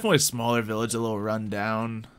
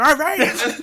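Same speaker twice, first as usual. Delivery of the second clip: high, loud, friendly NPC voice; a chipper villager greeting travellers; the game master voicing a cheerful local; cheery NPC; 7 dB louder than usual. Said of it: "he's like".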